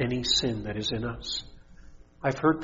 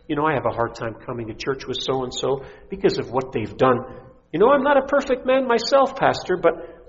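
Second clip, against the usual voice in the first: indignant churchgoer; 9 semitones higher, 6 dB louder than usual. Retold or imitated. Preacher voices complaining congregant.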